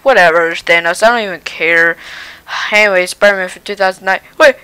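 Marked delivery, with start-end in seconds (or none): 4.4-4.5 hammed-up sobbing shout, higher and louder; loud hammy crying protest. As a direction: wail in mock despair at the loss. Spider-Man snapped away by Thanos.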